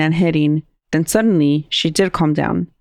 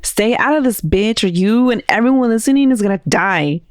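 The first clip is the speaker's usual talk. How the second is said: translated demon threat; 4 semitones higher than usual. Retold or imitated.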